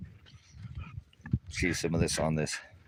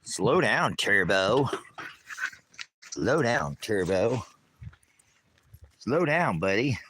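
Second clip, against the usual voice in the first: raised voice telling Turbo to slow down; calling out to the dog; 3 semitones higher, slower than usual. Real, not acted. Owner calling to his dog to slow down, raised voice. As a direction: call after the running dog.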